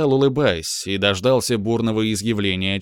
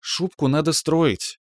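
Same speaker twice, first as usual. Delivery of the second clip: affected, slow lady's advice; mannered; 6 semitones higher, slower than usual. Acted. Friend gives fur advice in a mannered slow voice. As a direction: drawl it out with airs. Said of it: "манерно уминая блин".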